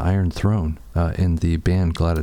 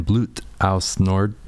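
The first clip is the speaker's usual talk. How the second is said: French chef accent; slower than usual. Shown as a demonstration. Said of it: "French chef accent there".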